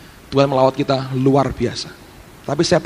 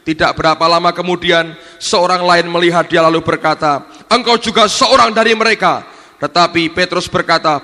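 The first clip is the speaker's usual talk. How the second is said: loud, declamatory Bible reading; projected sermon reading voice; scripture reading; 5 dB louder than usual. A narrator's reading. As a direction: read the passage out to a congregation. Reads scripture aloud.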